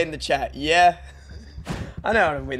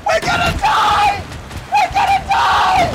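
very high screamed wail; hammed-up squealing terror; doom-laden panic; 7 dB louder than usual. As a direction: shriek it at full volume. Panic in the game.

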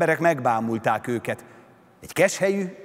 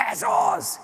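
sharp, very high exultant shout. A narrator's reading. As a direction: cry out in triumph. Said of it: "kiáltott Prométeusz".

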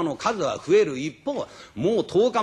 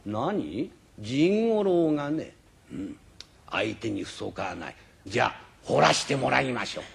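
put-on proud old carver; 4 semitones lower than usual. Old carver accepts challenge. (誇り高い老彫刻師、低く静かに)

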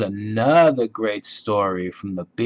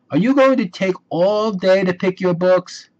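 higher little-sister voice, pushy and fed up; impatient; 8 semitones higher, 4 dB louder than usual. A narrator's reading. Sister tired of waiting at the library, impatient. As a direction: hurry him along, exasperated. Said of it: "said Sister impatiently".

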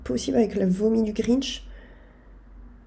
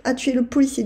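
louder, higher victory cry to viewers; triumphant; 4 semitones higher, 7 dB louder than usual. Real, not acted. Gamer announcing the boss is beaten, triumphant cheer. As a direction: celebrate the win out loud.

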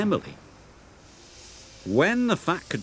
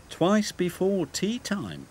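slow, higher, puffing engine; 8 semitones higher, slower than usual. Acted. Thomas warns Emily, slow and puffing. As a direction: puff it out slowly. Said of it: "he puffed".

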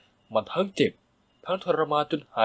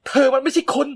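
furious shout; 11 semitones higher, 5 dB louder than usual. A narrator's reading. Mother yelling at the stepmother who hurt her son. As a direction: bark it at her in fury. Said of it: "แม่หันไปตวาดเสียงดังใส่น้าโม".

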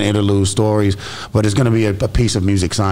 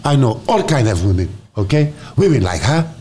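put-on African accent. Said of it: "You could do the African dialect?".

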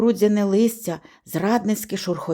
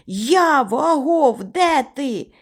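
calling out, raised pitch; гукання; 5 semitones higher, slower than usual. A narrator's reading. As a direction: holler for a lost friend. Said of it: "кричу я на повну губу". (гукати високим голосом)

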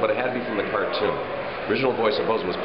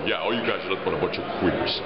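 Joe impression; 5 semitones lower, faster than usual. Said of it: "Or maybe Joe".

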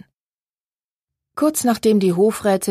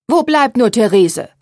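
higher, louder impatient call; irritated call; 5 semitones higher, 6 dB louder than usual. A narrator's reading. Mother annoyed at the late seamstress, loud impatient call. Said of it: "die unwillige Stimme der Mutter".

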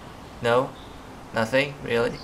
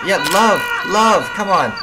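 higher, louder plea for love; urging; 5 semitones higher, 4 dB louder than usual. Pretend. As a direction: coax them insistently, voice raised. Pleads with game characters for love.

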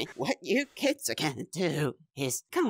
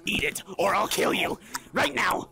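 threatening order; 4 semitones higher than usual. Acted. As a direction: bark the threat. Clown threatens the guest.

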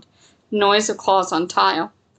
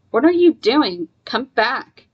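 raised, urgent warning call; 4 semitones higher than usual. Acted. John warns Charlie walking toward the creatures, urgent warning. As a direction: pull her back with a warning. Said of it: "with a warning tone".

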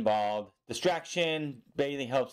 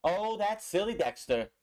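higher, slower, indulgent tut; fond chiding; 7 semitones higher than usual. Retold or imitated. Johnny imitated chiding silly Dexter, slow and higher. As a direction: scold a silly friend affectionately. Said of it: "he has that inflection in his voice".

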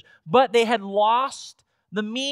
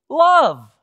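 loud, punched single word; emphatic proclamation; 3 semitones higher, 9 dB louder than usual. Real, not acted. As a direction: proclaim it forcefully to the congregation. Preacher proclaims the central command.

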